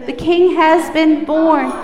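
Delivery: loud group repeat; loud echo. Real, not acted. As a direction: shout it back together. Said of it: "repeat after me".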